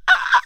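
open-mouthed crying laugh "Ah"; imitating laughing friend. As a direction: mimic her helpless laugh with mouth wide open. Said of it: "She was like this".

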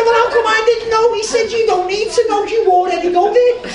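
high, loud indignant yell; a big hammed-up shout of disbelief; mock outrage. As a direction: shout it like you've been left out. Indignant shouted exchange retold.

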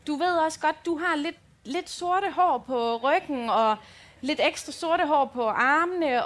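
slow, careful motherly explaining; patient explaining. Retold or imitated. Mother explaining to daughter in the car, slow and patient. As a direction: spell it out slowly and kindly. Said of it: "jeg vender mig bare straks om sådan".

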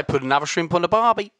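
lightly attempted Aussie catchphrase; Australian accent. Shown as a demonstration. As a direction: have a modest go at Australian. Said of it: "I can probably say".

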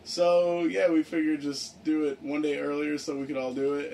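sleepy, drained delivery; tired voice. Real, not acted. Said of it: "You sound tired as fuck".

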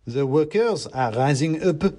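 high, slow slogan in character; declaiming mouse revolutionary. A narrator's reading. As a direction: declaim it as a tiny agitator.

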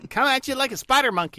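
put-on high, loud hyped-up kid voice; hyperactive kid. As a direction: shout like a wired little kid. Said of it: "little hyperactive kids going".

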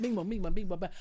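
repetitive bouncing Trinidadian imitation; singsong Trini accent. Shown as a demonstration. Doing it again for the co-host, singsong Trini accent. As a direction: mimic the Trini lilt in nonsense. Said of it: "Their accent's quite singy-songy".

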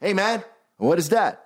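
a hint of a dazed pop singer; mock pop singer. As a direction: play a clueless pop star asking. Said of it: "Han säger så här".

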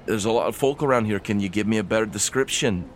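lightly voiced dwarf; a hint of a dwarf taking charge; steady, lightly acted dwarf investigator; dwarf questioning her. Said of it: "you can tell that this dwarf".

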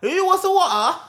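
high, hammed-up British accent; mock British accent. Repeating the water offer back, mock British accent.

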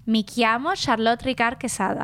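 Italian pronunciation, name included; Italian version. Shown as a demonstration. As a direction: introduce yourself as an Italian speaker would. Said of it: "you go higher in Italian".

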